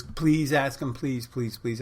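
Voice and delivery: imitating an eager, repeated plea; mock begging with a lifted pitch; pleading. Friend begging him to ask the musician for a song, pleading.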